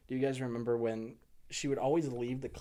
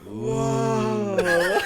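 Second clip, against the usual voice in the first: mock awe; 6 semitones higher, 8 dB louder than usual. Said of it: "six of us would be like".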